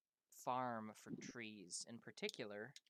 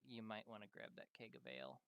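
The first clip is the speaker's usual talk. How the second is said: low, soft, sheepish aside; 4 semitones lower, 12 dB quieter than usual. Acted. Juliana nudging Panzer about the ale, sheepish. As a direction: say it small and embarrassed, voice dropped. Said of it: "sheepishly looks at you".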